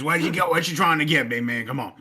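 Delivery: a touch of a hurried Italian New Yorker; old New York deli guy. Retold or imitated. Imitating the bagel shop owner hurrying a customer, lightly New York. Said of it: "he talk like this".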